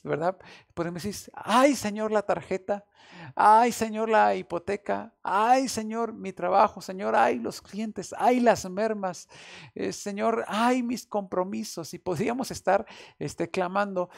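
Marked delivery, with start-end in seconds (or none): 1.3-11.9 quejidos fuertes y agudos, lamento actuado; lamentándose ante Dios; ayes de queja. Retold or imitated. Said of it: "podemos gritar muchos ayes". (lamento exagerado de preocupación)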